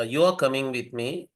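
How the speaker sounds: "You are coming with me" stated evenly; declarative statement. Shown as a demonstration. Lecturer shows students an assertive sentence, declarative. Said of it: "it's an assertive sentence".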